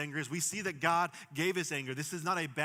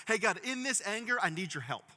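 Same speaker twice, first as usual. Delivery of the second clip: earnest prayer; 6 semitones higher, 5 dB louder than usual. Shown as a demonstration. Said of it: "to realize".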